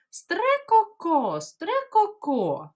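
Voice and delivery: slow, high chattering call; magpie chatter. Shown as a demonstration. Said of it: "Давайте ще раз".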